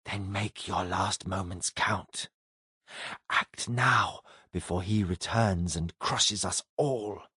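low, slow, hushed alien command; alien entity voice. Acted. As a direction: urge her on like a cold cosmic being. Alien entity urges Julia.

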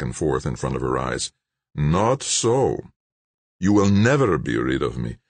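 lightly voiced threatening villain; cold, controlling menace; menacing villain voice. Gaetano threatening Kate.

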